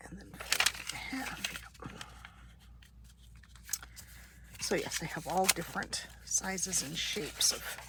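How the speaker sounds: breathy whisper while crafting. Real, not acted.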